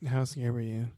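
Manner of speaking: unvoiced playful whisper; hushed teasing whisper. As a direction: whisper along with the joke. Whispering back in the game.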